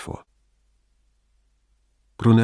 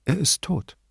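lightly voiced frail patient, higher pitch; a hint of a dying woman's voice; 8 semitones higher than usual. A narrator's reading. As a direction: say it high, from a sickbed. Dying woman speaks from her bed.

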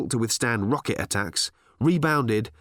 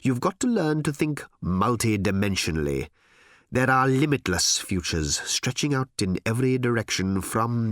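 rapt, emphatic executive oratory; visionary boss. Acted. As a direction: stretch out the wonder of endless futures. Harl's visionary speech.

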